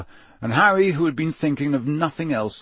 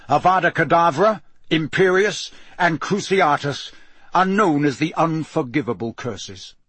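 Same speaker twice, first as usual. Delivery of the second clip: stern, drilling teacher voice, often louder; gruff Moody lecture; 4 semitones higher, 3 dB louder than usual. Acted. Moody drills the class on the unforgivable curses, sternly. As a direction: hammer each warning into the class.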